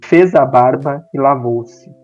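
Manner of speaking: measured literary reading aloud; story narration. A narrator's reading. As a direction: read the short story in neat, separated phrases. Lê um conto em voz alta. (leitura pausada de conto literário)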